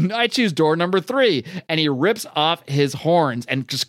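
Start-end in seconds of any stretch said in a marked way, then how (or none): 0.1-1.4 higher-pitched defiant declaration; mock-heroic defiance; defiant retort. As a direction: announce the choice with cocky defiance.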